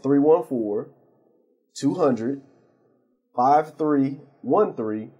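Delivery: slow digits in separate groups with clear pauses; drawn-out digits, pausing after each group; slowed-down phone number. Real, not acted. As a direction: give the number slowly enough to write down. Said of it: "I'll slow down".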